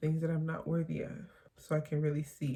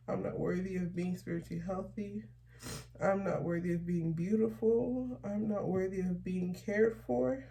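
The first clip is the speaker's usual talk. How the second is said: tearful reading; 3 semitones higher than usual. Real, not acted. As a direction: hold back real tears as each line gets harder. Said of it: "I started crying".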